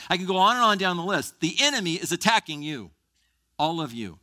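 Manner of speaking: loud, high urgent warning; fervent preacher warning; preaching loud. Real, not acted. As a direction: raise the alarm to the congregation. Preaching at full force.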